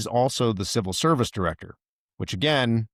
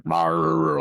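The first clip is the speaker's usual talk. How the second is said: mock shout; 6 semitones higher than usual. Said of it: "like, shouting".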